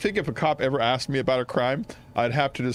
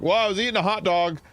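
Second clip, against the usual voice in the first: higher-pitched, lightly put-on New York accent; New Yorker; 6 semitones higher than usual. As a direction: recount a crime like a Law and Order New Yorker. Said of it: "I talk like a New Yorker".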